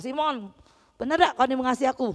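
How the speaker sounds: fast, sharp challenge in local dialect; Jesus hammed up as scolding Peter fast; mock scolding Jesus. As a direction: needle him like a scolding friend. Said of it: "Yesus tidak marah".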